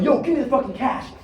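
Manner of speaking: high, loud, hurried stick-up demand; rapid-fire demand. Acted. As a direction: fire it off like an impatient mugger. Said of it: "real fast like that".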